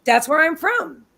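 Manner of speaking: lightly imitated New York accent, drawn out; slow, retold New York accent. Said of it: "she's got this New York accent".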